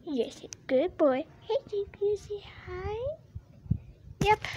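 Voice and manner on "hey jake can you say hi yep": talking to the dog. Real, not acted.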